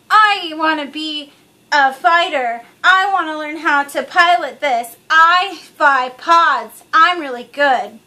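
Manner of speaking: put-on slow, loud, whiny kid voice; mocking young Anakin. Mocking the young boy from the movie, slow whiny brag. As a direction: ham up a bratty little boy bragging. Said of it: "making fun of young Anakin and his".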